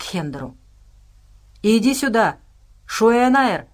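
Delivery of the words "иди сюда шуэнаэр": loud growled summons; bass growl. A narrator's reading. Alien Hender summoning his fellow creature, growling loudly. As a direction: growl out the call with force. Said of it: "прорычал он басом".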